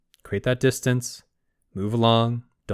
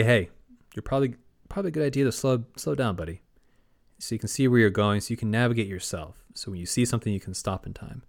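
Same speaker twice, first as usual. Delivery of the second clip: gentle suggestion. Retold or imitated. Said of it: "just gonna offer him suggestions".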